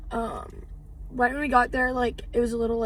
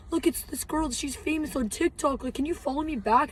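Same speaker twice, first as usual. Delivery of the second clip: imitated eager fans; 3 semitones higher than usual. Fans telling friends, begging a follow.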